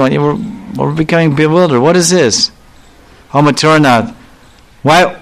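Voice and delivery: mildly indignant, questioning the beloved; contrary. Retold or imitated. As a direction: retell a contrary lover's complaint. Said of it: "gets kind of contrary".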